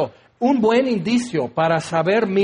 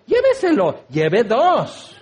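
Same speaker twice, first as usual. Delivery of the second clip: hammed-up salesman; 2 semitones higher, slower than usual. Clerk urging shoppers to buy two, hammed-up pitch. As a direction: hawk it like a store clerk.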